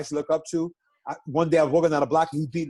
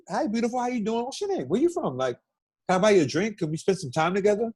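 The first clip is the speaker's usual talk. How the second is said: regular dude pickup; 2 semitones higher than usual. Shown as a demonstration. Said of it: "this is how you gotta do it".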